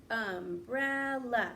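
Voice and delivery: umbrella stretched slowly, each syllable clear. Shown as a demonstration. Teacher modelling for the class, slow and syllabic. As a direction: draw out umbrella in beats. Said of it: "It sounds like three to me".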